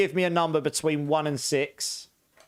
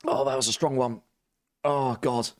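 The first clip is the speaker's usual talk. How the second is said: mouth full of chili. Real, not acted. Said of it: "need to swallow this thing".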